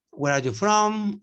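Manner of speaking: Where are you from? said slowly and clearly, ending closed on from; slow model question. Shown as a demonstration. Teacher modelling the question for students. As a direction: spell out each word slowly. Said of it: "model question for the class".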